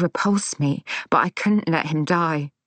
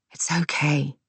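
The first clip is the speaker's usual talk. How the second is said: gently. A narrator's reading. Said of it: "she said gently".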